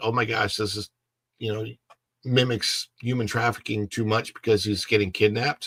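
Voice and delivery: plain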